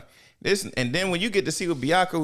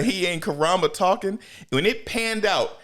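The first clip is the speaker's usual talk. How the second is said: ordinary delivery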